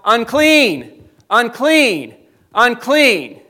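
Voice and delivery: loud falling cry of unclean, repeated; a leper calling out a warning in the street; leper's warning yell. Retold or imitated. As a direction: call it out so everyone keeps away. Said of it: "they would have to yell".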